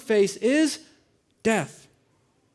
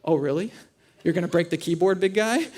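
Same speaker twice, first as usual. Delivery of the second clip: understated mock doubt, rising at the end; trolling; 2 semitones lower than usual. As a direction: imitate a wife needling her husband, unimpressed. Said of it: "she starts trolling me".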